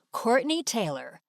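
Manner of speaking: normal talking voice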